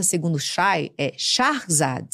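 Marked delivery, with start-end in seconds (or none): 1.2-2.1 Shahrzad said slowly, sh then a short open a, no e before r, stress on the final zad; persian pronunciation. Shown as a demonstration. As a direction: say it the Persian way, Shahrzad, slow and deliberate. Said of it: "A pronúncia certa". (Shahrzad dito devagar, à moda persa, com tônica em zad)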